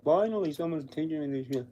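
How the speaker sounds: sudden high relief, then settling; voicing the dog. Old dog thanking its new trainer, high and grateful.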